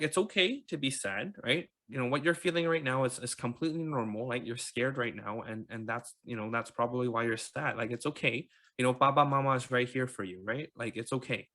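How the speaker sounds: soft, soothing parent's voice; gentle reassurance. Retold or imitated. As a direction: quietly reassure a scared toddler. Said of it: "we reassured him".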